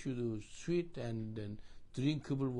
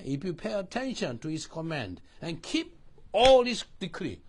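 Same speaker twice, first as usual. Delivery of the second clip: emphatic preaching; 8 dB louder than usual. Shown as a demonstration. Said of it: "What does it mean, keep?".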